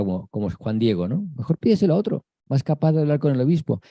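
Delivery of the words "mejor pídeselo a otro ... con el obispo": pleading to God. Retold or imitated. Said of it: "le decimos a Dios".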